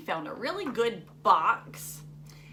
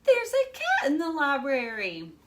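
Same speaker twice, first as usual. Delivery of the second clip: mommy voice; 5 semitones higher, 5 dB louder than usual. A narrator's reading. Mommy voiced in picture book.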